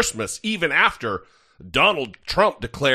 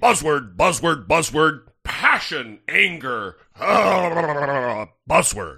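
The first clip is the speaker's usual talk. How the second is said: mocking buzzword parrot. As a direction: parrot her speech as empty buzzwords. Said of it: "I'm gonna repeat that to you as I heard it".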